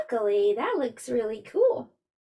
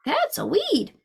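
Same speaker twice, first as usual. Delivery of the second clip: man's remark; 7 semitones higher than usual. Acted. Man spots weed in story.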